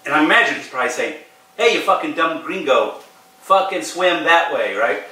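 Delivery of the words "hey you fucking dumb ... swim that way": imagined insistent local, slightly higher; adamant. Retold or imitated. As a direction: imitate an exasperated stranger giving directions. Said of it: "more adamantly this time is like".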